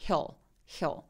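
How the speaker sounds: "hill" ending in a dark L; back-tongue L in "hill". Shown as a demonstration. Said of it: "다크L".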